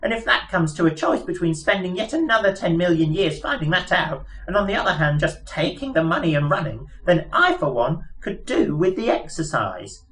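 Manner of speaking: high, chirpy little mouse voice; piping mouse voice. Acted. Mouse explaining their plans to Arthur, piping high voice. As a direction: squeak it out like a pompous lab mouse. Frankie mouse long speech.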